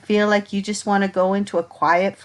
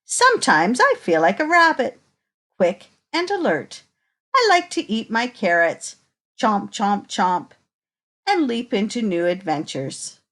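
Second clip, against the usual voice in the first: put-on reading to children. Reading picture book to children.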